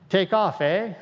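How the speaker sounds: quick Canadian impression with a tagged-on eh; playful mock Canadian accent. Shown as a demonstration. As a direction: imitate a Canadian. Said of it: "Up in Canada".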